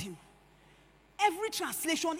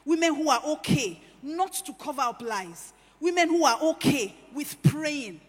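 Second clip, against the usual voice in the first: preaching crescendo; 8 dB louder than usual. Real, not acted. Preacher chanting a refrain.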